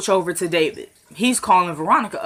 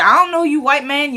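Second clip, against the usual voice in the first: mock-indignant retort, pitched up; indignant brush-off; 5 semitones higher than usual. Quita turns away a stranger wanting to talk, indignant. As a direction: brush him off with raised pitch.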